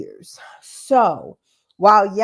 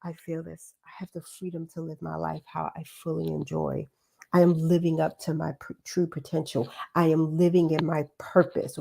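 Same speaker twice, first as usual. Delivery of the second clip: with real emotion; 3 semitones lower than usual. Shown as a demonstration. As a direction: say it like you truly believe it. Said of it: "No, it's gonna be like".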